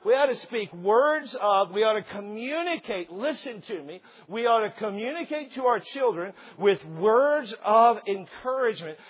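loud, slow pulpit build; preaching at full force. Acted. Pastor exhorting parents, loud slow preaching. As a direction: drive it home to the congregation.

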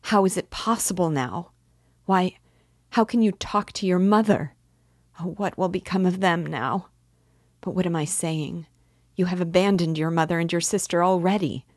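high, loud, mounting despair; distraught cry. A narrator's reading. Sonia lamenting his abandoned mother and sister, crying out distraught. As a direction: build to a loud, anguished outburst. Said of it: "she cried".

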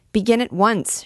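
pierce the uproar with it; shrieking student. Acted. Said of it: "shrieked the student".

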